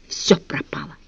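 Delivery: hushed despairing whisper; boy in a dungeon, whispered despair. A narrator's reading. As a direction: breathe it out in hopelessness. Despairing thought.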